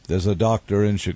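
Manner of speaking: put-on thick German accent, lightly done; a German fan's accent. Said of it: "in the thick German accent".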